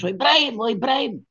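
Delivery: high panicked cry of alarm; panicked shout. Retold or imitated. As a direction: yell out the warning in fright. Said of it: "βάζει τις φωνές". (πανικόβλητη φωνή συναγερμού)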